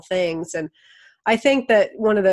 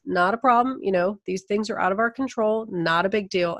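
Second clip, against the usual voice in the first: easygoing reassurance; 3 semitones higher than usual. Retold or imitated. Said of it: "we were just like".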